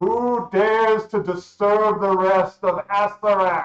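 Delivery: booming, very loud and high, filling the space. Narrating a scene, speak as a crowned skeletal figure in a booming voice. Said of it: "A booming voice seeming to emanate from the whole of the chamber demands".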